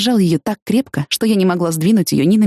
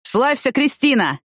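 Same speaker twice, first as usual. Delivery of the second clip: mock hail; 6 semitones higher, slower than usual. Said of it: "крикнул он".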